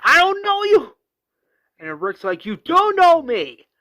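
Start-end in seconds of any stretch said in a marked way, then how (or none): 0.0-1.0 very high, loud acted scream; all-out retold yell; straight-up screaming. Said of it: "Morgan straight up screams". 2.5-3.7 high, loud acted shout; heated screamed retort; yelling back. Rick yells back in fight.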